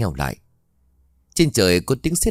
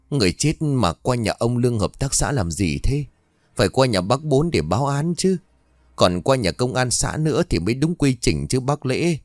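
a touch raised, mildly shaky questioning; loud but trembling; 4 semitones higher than usual. Acted. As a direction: protest out loud while still scared. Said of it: "lớn tiếng hỏi nhưng vẫn bằng cái giọng run rẩy". (hỏi lớn tiếng, giọng hơi run)

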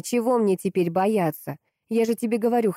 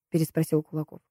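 plain reading voice

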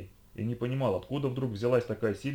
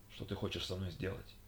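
much softer, timid question; fearful; 4 semitones lower, 12 dB quieter than usual. Acted. Хьюго боязливо спрашивает Лишу, тихо и испуганно. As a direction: shrink back as you ask. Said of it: "боязливо спросил он".

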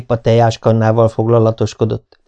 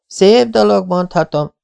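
outcry; 10 semitones higher, slower than usual. A narrator's reading. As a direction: burst out in dismay. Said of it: "szakadt fel Marillából a kiáltás".

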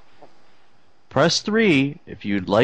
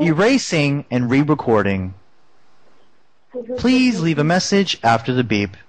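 answering machine voice; 2 semitones lower than usual. Pretend. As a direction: recite menu like a robot system. Fake voicemail menu.

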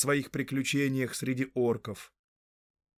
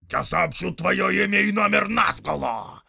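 threatening orc; 8 semitones higher, 9 dB louder than usual. Acted. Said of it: "прошипел воин".

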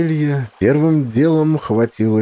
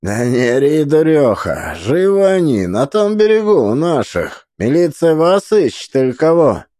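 gruff peasant man; 4 semitones higher, 3 dB louder than usual. Acted. Rough man telling her off.

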